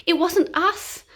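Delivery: crying innocence. Acted. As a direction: insist you didn't do it. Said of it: "cried the naughty baddies".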